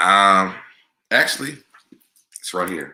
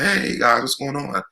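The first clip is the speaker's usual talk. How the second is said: breezy mock greeting; 6 semitones higher than usual. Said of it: "pop up later and be like".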